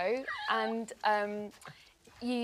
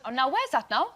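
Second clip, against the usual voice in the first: put-on Welsh accent. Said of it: "obviously Welsh is easy".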